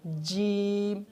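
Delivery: جیم with rounded shifting lips; moving lips. Shown as a demonstration. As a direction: show the lip-moving error on جیم. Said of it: "ہونٹوں کو ہلا دیتے ہیں".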